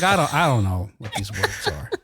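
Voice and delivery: quoting Billy through a laugh. Retold or imitated. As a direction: say it while laughing. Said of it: "He's like".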